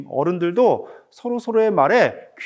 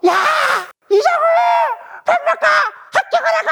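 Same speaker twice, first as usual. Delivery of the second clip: acted furious yelling; 4 dB louder, much faster than usual. Dad re-enacting his second call to an ignoring son, furious scream. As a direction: act out a dad at the end of his patience, screaming. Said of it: "아빠는 더 화가 났겠죠?".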